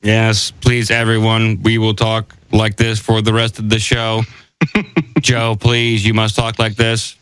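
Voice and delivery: flat, even monotone robot. Pretend. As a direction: speak like a stiff machine. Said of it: "Sound like humans impersonating robots".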